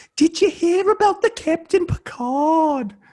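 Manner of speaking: put-on slight British accent, very high and loud. Re-enacting how she asked about Captain Picard, slight British accent. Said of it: "it had a little British flair to it".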